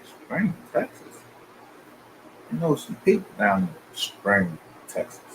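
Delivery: high-pitched astonished "Spring, Texas?" rising on Texas, then trailing off; surprised disbelief. Retold or imitated. Learning Simone Biles is from his town, high and astonished. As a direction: pitch it way up, stunned it's her hometown. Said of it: "I was like".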